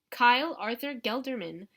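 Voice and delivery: Aunt Glenda repeating the tycoon's name for clueless relatives, each syllable stressed; stress every syllable. A narrator's reading. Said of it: "stressing every syllable this time".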